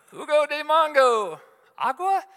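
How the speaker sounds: very high and loud, exasperated; shouting the order. Retold or imitated. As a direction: yell it so she finally understands. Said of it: "if you say it louder".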